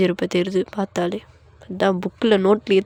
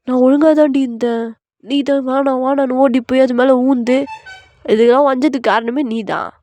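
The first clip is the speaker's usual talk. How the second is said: higher-pitched protesting retort; indignant husband; 3 semitones higher than usual. Acted. Husband denying blame to his wife, indignant. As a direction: push the blame back, mildly worked up.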